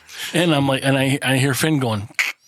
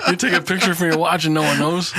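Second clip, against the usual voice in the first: laughing; 6 semitones higher than usual. Real, not acted. Joking about sneaky photos.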